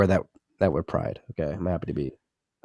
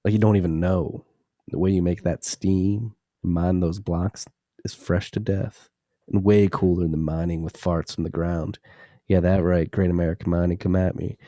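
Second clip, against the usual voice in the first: sexy voice. Pretend. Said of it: "I had to say this in a sexy voice".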